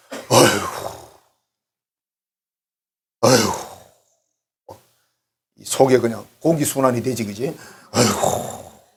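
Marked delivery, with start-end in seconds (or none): 0.1-4.8 slow, drawn-out groaning "아이고" of a fed-up parent; weary parent sigh. Retold or imitated. Parent sighing over a child with no plans, slow and drawn-out. 7.9-8.8 slow, drawn-out groaning "아이고" of a fed-up parent; weary parent sigh. Retold or imitated. Parent sighing over a child with no plans, slow and drawn-out.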